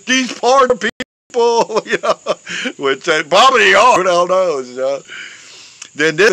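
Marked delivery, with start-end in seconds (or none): 0.1-1.8 high, far-off mock scream of the line; hammed-up movie-star yell, pitched way up; high mock screaming Charlton Heston. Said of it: "Charleston Heston coming down".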